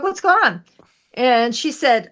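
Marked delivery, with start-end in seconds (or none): 0.0-0.6 high, bright curious question; concerned question. Retold or imitated. Retelling asking the client what's wrong, high and curious. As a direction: ask lightly up high. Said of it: "And I'm like".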